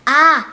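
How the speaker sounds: long open a sound; letter sound a. Shown as a demonstration. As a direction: say a held out, falling. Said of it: "La A suena". (sonido de la a alargado)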